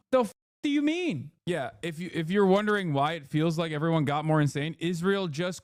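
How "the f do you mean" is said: mock outrage. Retold reaction in odd voice.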